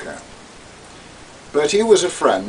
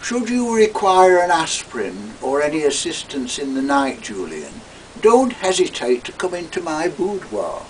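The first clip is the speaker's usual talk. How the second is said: Toad; 4 semitones higher than usual. Acted. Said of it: "when Toad said".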